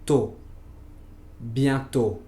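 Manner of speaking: "tôt, bientôt." with a long closed ô; French ô sound. Shown as a demonstration. Teacher modeling circumflex o for learners, careful French. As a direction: model the closed ô in both words. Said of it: "Por ejemplo".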